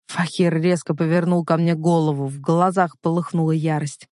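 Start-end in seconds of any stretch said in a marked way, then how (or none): none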